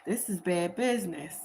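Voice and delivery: whispered under the breath; hushed aside. Retold or imitated. Driver whispering he wants no part of it. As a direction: whisper it like you want no trouble. Driver's voiced fear, tarot reading.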